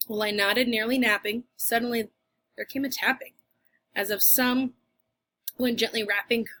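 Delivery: measured, rhythmic recitation of The Raven; poem reading. Acted. Teacher reading Poe to her class, in a poem recitation voice. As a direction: let the verse roll on, even and dark.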